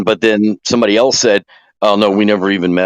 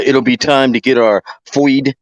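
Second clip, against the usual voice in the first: put-on Wisconsin accent; 4 semitones higher, slower than usual. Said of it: "He's got the cutest little accent".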